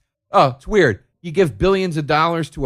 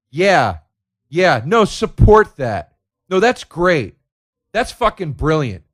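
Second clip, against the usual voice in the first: sarcastic cheer; 3 semitones higher, 6 dB louder, slower than usual. Retold or imitated. Sarcastic mock support.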